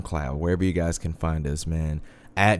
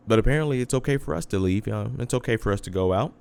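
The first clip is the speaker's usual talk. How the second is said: sarcastic, fast and rising; 4 semitones higher, faster than usual. Real, not acted. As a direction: say it with heavy sarcasm. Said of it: "If you can't tell by my sarcasm".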